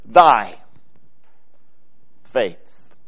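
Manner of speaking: "thy" stressed, then "faith" falling off. Shown as a demonstration. Preacher to congregation, stressing "thy". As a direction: lean on "thy" to make it personal. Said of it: "put the emphasis on the next word".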